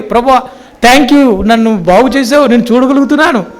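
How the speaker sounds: high, joyful cry of thanks; joyful shout. Pretend. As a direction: cry out your thanks like a healed man. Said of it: "సంతోషంగా అరవాలి కదా".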